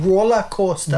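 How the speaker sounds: Geordie target-word demonstration; attempted Geordie accent. Shown as a demonstration. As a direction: repeat it in a put-on Geordie accent. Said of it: "if you wanna do Geordie".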